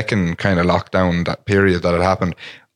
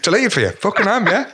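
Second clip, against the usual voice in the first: higher, laughing sarcastic parody of her; teasing imitation of a sarcastic friend; mock sarcasm; 10 semitones higher than usual. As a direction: sneer it like a fake compliment. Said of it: "You look so sarcastic right now".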